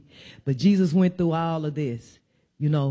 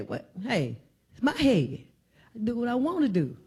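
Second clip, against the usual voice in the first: quick, higher, sassy comeback; mock offended retort; 4 semitones higher, 3 dB quieter than usual. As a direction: play the touchy one snapping back, fast. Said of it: "and say".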